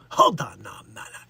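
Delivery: Bronx vibe. Pretend. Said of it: "That's more of a Bronx vibe we do".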